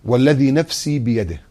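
slow, measured recitation of the oath; solemn hadith recitation. Acted. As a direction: recite each word slowly and gravely. (تلاوة متأنية للحديث)

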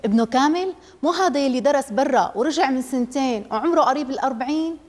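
mildly scornful, incredulous question; a touch of disdain at the old groom; mother scoffing at the suitor's age, mild disapproval; disapproving. Acted. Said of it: "قالت أم عامر باستهجان".

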